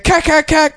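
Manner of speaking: high cack cack gun sound; mock gunfire noise. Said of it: "and he's like".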